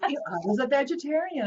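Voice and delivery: sheepish laughing admission. Real, not acted. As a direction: laugh at your own past self. Retelling own silly diet, laughing.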